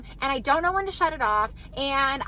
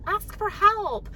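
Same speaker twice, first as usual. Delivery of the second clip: slow, higher "Ask for help." with firm stress on help; coaching a child; 6 semitones higher, slower than usual. Retold or imitated. Parent teaching a child, slow higher patient stress. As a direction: spell out "Ask for help." slowly to a kid. What do we say to them?.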